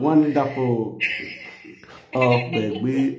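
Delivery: loud, high delighted praise; excited praise. Real, not acted. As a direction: cheer her on with joy. Praising wife's singing.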